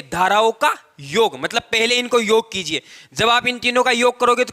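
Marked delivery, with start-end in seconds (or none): 0.0-1.4 धाराओं drawn out slowly as the correction; stress on धाराओं. Shown as a demonstration. Teacher correcting the term for students, slow stress on धाराओं. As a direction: lean on धाराओं, stretching it out. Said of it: "यहाँ पर हम धाराएं नहीं बोलेंगे".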